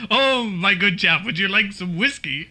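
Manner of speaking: badly faked British toff offering a drink; British accent. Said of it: "What about, what about British?".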